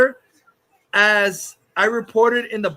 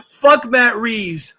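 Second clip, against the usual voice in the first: loud slow taunt; 5 dB louder, slower than usual. Real, not acted. Taunting Matt Reeves again.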